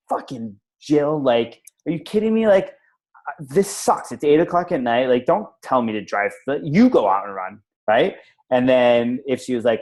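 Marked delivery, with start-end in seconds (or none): 0.1-7.6 retelling an irritated rant at the sister, pitched higher; mock-indignant complaint; re-enacting an exasperated reply about being told to keep running; exasperated outburst. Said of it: "I was gonna get mad at her".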